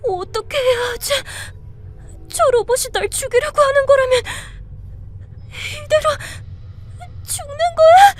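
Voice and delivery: rising panic, voice climbing high and breaking; terrified. Acted. Alone and hunted by a robot, panicked sobbing. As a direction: sob it out as the robot closes in.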